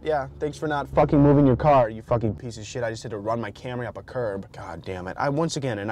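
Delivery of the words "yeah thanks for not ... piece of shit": furious cursing at a driver; angry. Real, not acted. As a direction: spit it out at the car. Cursing at a parked car.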